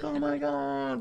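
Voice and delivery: gasped surprise. Retold or imitated. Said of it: "everybody would be like".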